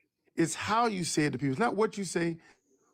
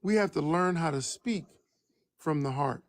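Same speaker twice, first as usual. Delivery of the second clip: measured delivery, pausing before the last phrase; deliberately slow. Shown as a demonstration. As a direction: say it slowly, phrase by phrase. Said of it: "I'ma say it slowly".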